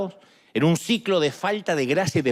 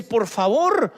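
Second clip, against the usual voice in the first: pleading. Retold or imitated. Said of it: "hace lo mismo que hizo él".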